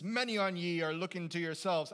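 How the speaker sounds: loud pirate-like stab at Essex; badly faked Essex accent, high and loud; broad Essex gone pirate. Preacher scolding his congregation, pirate-sounding Essex accent. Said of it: "the only accent I have is pirate accent".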